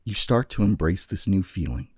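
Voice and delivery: measured second-person narration with long pauses; story narration. Acted. Game master walks Joshua through his fading memory, measured narration.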